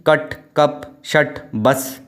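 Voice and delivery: "कट, कप, शट, बस", each vowel cut short; short, sharp cut. Shown as a demonstration. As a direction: keep the vowel brief in "कट, कप, शट, बस". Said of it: "वैसे ही".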